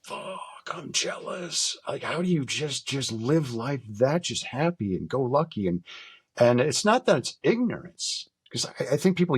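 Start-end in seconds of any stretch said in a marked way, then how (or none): 0.0-5.7 high, drawn-out envious groan into wondering; retold envy. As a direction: voice envious disbelief at happy believers. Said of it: "I look at that and I am like".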